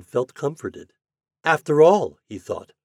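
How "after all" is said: lightly voiced pumpkin, higher and louder; little pumpkin. A narrator's reading. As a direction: think aloud as a small storybook character. Pumpkin's comforted thought.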